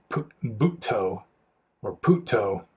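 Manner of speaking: Buddho said as Butto, then Putto, the Thai way; Thai pronunciation. Shown as a demonstration. Monk explaining how Thai monks say Buddho, pronouncing Butto and Putto. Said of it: "I think they pronounce it".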